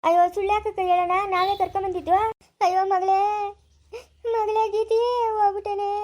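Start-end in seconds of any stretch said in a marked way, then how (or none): 2.6-5.9 keen over her as if she's gone; wailing lament. Acted. Mother wailing over her daughter who took poison, grief-stricken.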